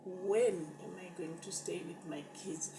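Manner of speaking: breathless whispered plea; whispered prayer. Retold or imitated. Whispering to God, begging to stay with her kids.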